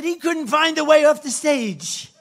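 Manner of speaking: high, loud, laughing through it; laughing outrage. Real, not acted. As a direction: laugh in disbelief at the press. Laughing mock outrage at press.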